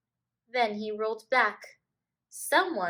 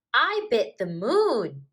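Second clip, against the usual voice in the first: put-on slow, louder proud kid; proud child; 3 semitones higher, 8 dB louder, slower than usual. A narrator's reading. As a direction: show off your bite. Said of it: "shouted Bill".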